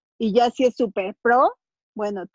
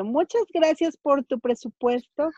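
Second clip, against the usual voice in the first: mildly singsong, higher courteous dismissal; polite brush-off; 3 semitones higher than usual. Acted. Client declining the stylist's quote, politely dismissive. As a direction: lightly act out a polite refusal.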